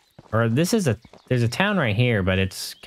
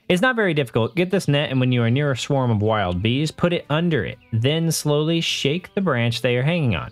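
lightly voiced beekeeper; 3 semitones higher than usual. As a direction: talk the hero through it like a kindly old beekeeper. Beekeeper NPC explains the task.

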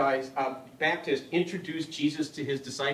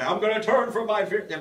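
lightly hammed-up epic voice; a hint of a dramatic old-film Moses; mock Charlton Heston; 4 semitones higher than usual. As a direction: tease the kids with a half-hearted movie line. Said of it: "I used to walk around like that".

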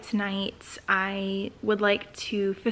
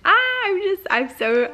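excited little outburst, a bit louder; real excitement; 10 semitones higher, 6 dB louder than usual. Real, not acted. Vlogger overcome by her good news, excited. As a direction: bubble over, stumbling over the words. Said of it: "I'm so freaking excited".

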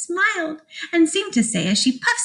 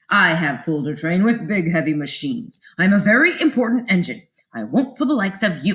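lightly voiced proud engine, low; a hint of a self-important engine; pompous big engine; 5 semitones lower than usual. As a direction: puff yourself up and refuse.

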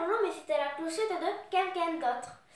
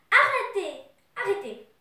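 crying out; 4 semitones higher, 7 dB louder than usual. A narrator's reading. Potiron calling to whoever is behind the hedge, crying out. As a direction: call a halt, first one loudest. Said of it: "cria Potiron".

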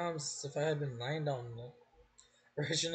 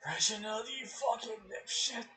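angry outburst; 6 semitones higher than usual. Acted. Outburst at Reginald.

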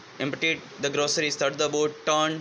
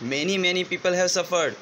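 slow, higher-pitched plea; raised voice; 4 semitones higher, much slower than usual. Acted. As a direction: lift the voice a little to press the point. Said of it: "થોડા ઊંચા સ્વરમાં કીધું". (થોડા ઊંચા સ્વરમાં, ધીમે)

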